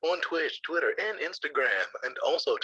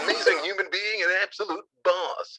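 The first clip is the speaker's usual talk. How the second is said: hype man ad; 4 semitones higher than usual. Acted. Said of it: "be my hype man".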